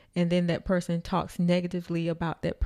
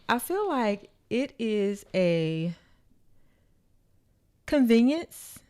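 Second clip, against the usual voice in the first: sore jaw from braces. Real, not acted. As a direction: ease each word past tight braces. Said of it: "I just got my braces tightened today".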